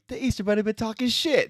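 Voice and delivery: high shouted movie quote. Retold or imitated. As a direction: belt it like Jay. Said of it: "They're like".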